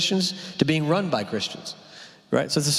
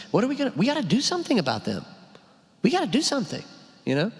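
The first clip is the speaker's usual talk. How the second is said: high, fast, hammed-up worried churchgoer; mock panic; 8 semitones higher, faster than usual. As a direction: mimic the anxious do-gooders, squeaky and hurried.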